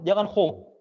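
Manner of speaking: "ho" with rounded lips; rounded wrong vowel. Shown as a demonstration. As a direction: push the lips out on "ho" as the mistake. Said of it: "bibirnya jangan ikut campur".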